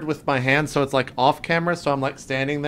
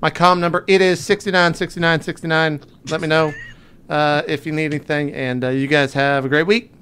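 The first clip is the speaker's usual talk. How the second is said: character voice; 2 semitones higher, 4 dB louder than usual. Acted. Recording a message as Higgins.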